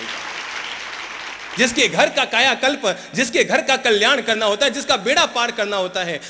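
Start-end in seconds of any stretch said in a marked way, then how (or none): 1.6-6.2 louder, higher sermon peak; preacher's rising fervor; fervent preaching. Acted. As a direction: drive the point home to the congregation. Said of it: "preaching climax, rising fervor".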